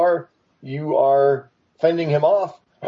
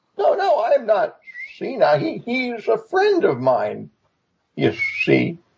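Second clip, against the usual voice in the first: put-on old, toothless tiger voice, high, swooping; 5 semitones higher than usual. Voicing a sleepy old tiger scolding an adventurer: old toothless tiger voice. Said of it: "an old, toothless tiger, as you could probably hear from his voice".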